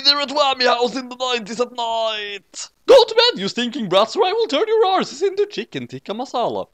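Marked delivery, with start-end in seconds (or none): 2.8-3.4 put-on high shouted order to the kids; roaring. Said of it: "roared Roger". 3.4-6.7 roaring. Acted. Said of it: "roared Roger".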